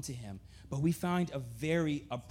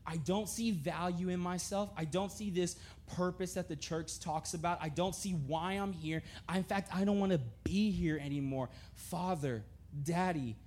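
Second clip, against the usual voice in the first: softer, hushed confession of despair; a touch of broken, hushed prayer; 3 dB quieter than usual. Pretend. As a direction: quietly pour out hopelessness. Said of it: "run to God and be like".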